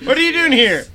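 high, loud laughing quote. Real, not acted. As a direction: quote it while cracking up. Laughing re-enactment.

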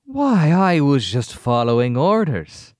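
high, slow, eerie; slow, unsettling and high; creepy villain voice. Acted. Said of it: "in, like, a German accent".

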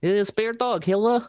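put-on high, playful Russian accent. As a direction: coo at a dog in a Russian accent. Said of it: "in your Russian voice".

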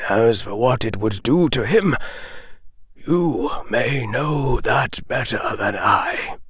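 put-on measured, grave old wizard. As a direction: speak as a wise old headmaster. Dumbledore speaks gravely.

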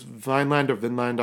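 Vineland with a long i, then Vinland with a short i; two pronunciations. Shown as a demonstration. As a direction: set "Vineland" against "Vinland". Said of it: "I've heard it pronounced both ways".

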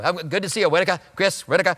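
lightly imitated Boston accent. Preacher mimicking his Boston friend's greeting, light Boston accent. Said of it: "I can tell he's from that area immediately".

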